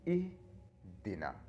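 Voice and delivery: इहदिना spelled out very slowly, each sound clear; slow demo word. Shown as a demonstration. Teacher sounds out the word for students, very slowly. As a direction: stretch इहदिना out for learners. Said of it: "इसी तरह क्या बोलते हैं?".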